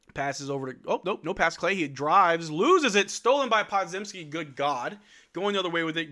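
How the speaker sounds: live basketball play-by-play. Acted. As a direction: call the game as it happens.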